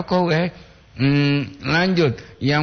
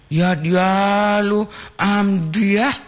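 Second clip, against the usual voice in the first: with full feeling; 6 semitones higher, much slower than usual. Acted. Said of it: "dengan penuh perasaan aku".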